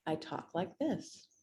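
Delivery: slow, deliberate lead-call voice; slowed-down speech. Shown as a demonstration. Fast talker showing her voice for leads, slowed down. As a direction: ease the pace right down, unhurried. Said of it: "I slow my speech down".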